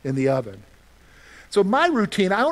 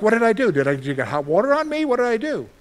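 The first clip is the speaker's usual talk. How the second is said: flustered, startled questions; a touch of panic, half-hearted; mild freaking out; 4 semitones higher, faster than usual. Retold or imitated. Preacher retelling the family's flustered reaction in the kitchen, mildly panicked. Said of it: "everybody else is freaking out".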